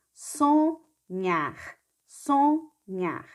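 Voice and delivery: "Sonhar" lifted high and drawn out, twice; teacher sings out "Sonhar" for the class; sounded-out word. Shown as a demonstration. Teacher models the new word for night-school pupils, sung out high. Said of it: "forma o som nhá".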